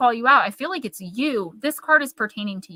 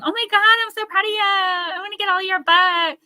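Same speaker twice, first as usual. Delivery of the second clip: over-the-top fake gushing; 10 semitones higher, 4 dB louder than usual. Mocking a jealous person typing fake praise, shrill gushing. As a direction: ham up the fake adoration in a squeaky put-on voice. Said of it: "the whole time typing".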